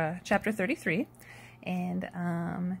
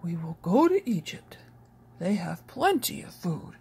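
whispered plan from Jacob; old father's hushed decision. A narrator's reading. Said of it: "said Jacob".

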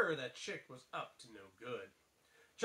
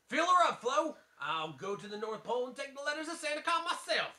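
higher redneck voice; redneck Mater; 8 semitones higher than usual. Acted. Mater orders fuel, higher redneck accent. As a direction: play Mater like a country tow truck. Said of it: "I need to do a redneck voice".

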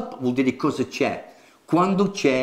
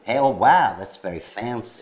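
put-on American accent; 3 semitones lower than usual. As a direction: act an impressed American. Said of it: "in America they use fancy".

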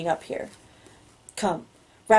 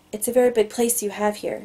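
mildly timid woman's line; a touch of shyness, lightly voiced; 2 semitones higher than usual. A narrator's reading. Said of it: "her voice timid".

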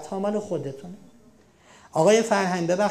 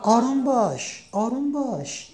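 calm soothing; 4 semitones higher than usual. Shown as a demonstration. Teacher giving the better phrase, calm and soothing. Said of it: "چی بگیم به جاش؟".

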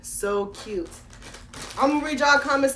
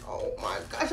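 awed whisper; 7 dB quieter than usual. Real, not acted. Whispered awe over shoes.

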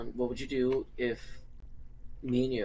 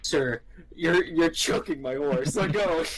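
lightly voiced outraged horse owner; mock indignant horse owner; 4 semitones higher, 4 dB louder, slower than usual. Horse owner confronting a stranger, mock indignation. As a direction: raise the pitch in mock protest.

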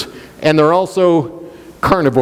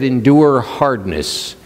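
slow emphasis; 5 semitones lower, slower than usual. Shown as a demonstration. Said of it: "He said".

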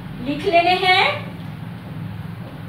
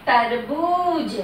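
तरबूज drawn out slowly with a falling close; teacher stretching तरबूज for the class; slow model word; much slower than usual. Shown as a demonstration. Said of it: "क्या बन गए?".

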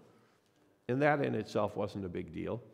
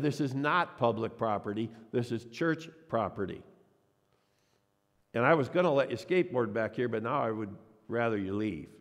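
mild mock sternness, a pastor scolding kids; a hint of an angry pastor telling kids off. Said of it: "with my best angry pastor voice".

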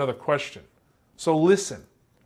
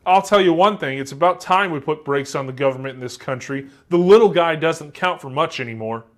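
ranting interviewee; 5 dB louder than usual. Retold or imitated. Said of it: "interviewee says".

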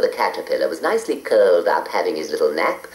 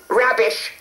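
snapping; 14 semitones higher than usual. A narrator's reading. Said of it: "snapped Edna".

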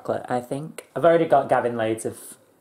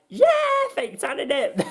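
put-on voice; 14 semitones higher than usual. Retorts to instructor in put-on voice.

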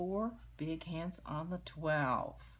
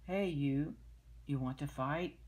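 loud grouchy challenge; ladybug voice; 4 dB louder than usual. Acted. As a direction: bark it like a grumpy bug.

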